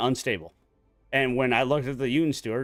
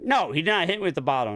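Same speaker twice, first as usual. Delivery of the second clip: higher and fast, mock exasperation; exasperated denial; 5 semitones higher, faster than usual. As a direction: rattle it off, fed up. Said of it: "he was just like".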